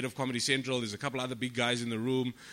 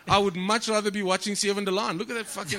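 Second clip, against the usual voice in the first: bored man; 5 semitones higher, 4 dB louder than usual. Retold or imitated. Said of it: "He's just like".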